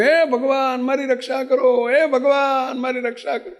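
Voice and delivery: half-hearted imitation of a desperate prayer; mock pleading prayer. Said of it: "એવા ભજન કરવા માંડ્યો". (હળવી નકલ કરતી આજીજીભરી પ્રાર્થના)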